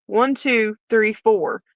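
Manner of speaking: mock smart-aleck counting. Inmate's officer answering investigators' accusation, smart-aleck. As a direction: count it off pointedly, a touch cheeky. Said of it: "my smart aleck self".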